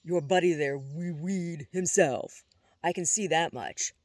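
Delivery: sharp scolding voice; stern. A narrator's reading. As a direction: scold the terrified boys. Constance scolding the boys.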